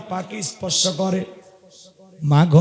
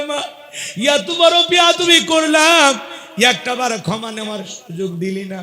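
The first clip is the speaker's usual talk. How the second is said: wailing. Acted. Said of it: "হাউমাউ করে কাঁদে আর বলে".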